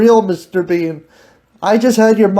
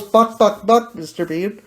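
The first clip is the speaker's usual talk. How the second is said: chicken voice; 4 dB quieter than usual. Retold or imitated. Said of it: "The chicken goes".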